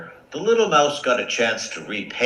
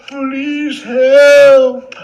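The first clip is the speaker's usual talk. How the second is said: louder, higher desperate yells; cries for help; 12 dB louder than usual. Acted. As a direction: shout for help, trapped.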